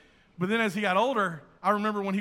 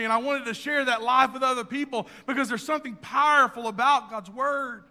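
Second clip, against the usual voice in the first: climbing, louder preaching that keeps building; fervent preaching; 4 semitones higher, 4 dB louder than usual. Acted. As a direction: preach it with rising fire. Preaching builds to full force.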